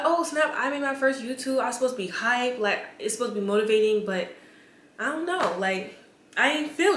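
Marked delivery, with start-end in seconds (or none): 0.0-1.6 higher, mock excited cheer; imitating the excitement she should have had; mock hype. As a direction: act out the hype you didn't feel. How she was supposed to feel.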